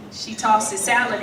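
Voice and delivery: ordinary talk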